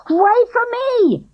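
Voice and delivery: high, loud slow call; yelled. A narrator's reading. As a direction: call out after her. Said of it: "he yelled".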